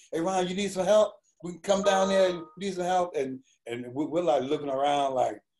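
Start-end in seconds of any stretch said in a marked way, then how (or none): 0.1-3.1 put-on yelling, much higher and faster. Retelling people in the yard yelling to Ron, retelling their yelling. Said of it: "everybody's like yelling like".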